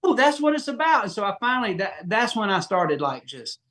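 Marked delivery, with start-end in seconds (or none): 0.0-1.0 dawning realization. Retold or imitated. Moment of realization.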